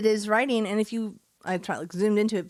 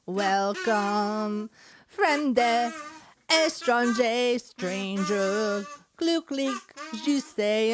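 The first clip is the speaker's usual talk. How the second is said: mock Cabaret accents; 3 semitones higher, much slower than usual. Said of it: "I can't do accents".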